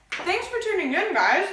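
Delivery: chewing while talking; words round a mouthful of chocolate; mouth full. Real, not acted. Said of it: "I have chocolate in my mouth".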